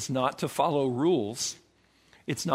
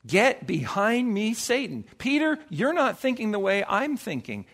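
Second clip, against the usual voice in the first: slightly hammed-up rebuke, pitched higher; mock stern rebuke; 5 semitones higher than usual. Jesus rebuking his disciple Peter, retold as a higher-pitched stern rebuke. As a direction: reprove him in a raised pitch, as a retold quote.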